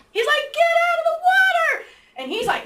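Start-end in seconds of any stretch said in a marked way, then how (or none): 0.5-1.8 high, loud yelled warning; acted urgent shout. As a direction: yell for someone to get to safety. Acting partner yelling warning.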